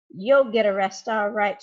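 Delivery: loud triumphant retort, You'll stressed; shouted. Acted. Mister Dark bursting in on the thieves, loud shouted retort. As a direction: fire it back at the thieves loudly. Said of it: "shouted Mister Dark".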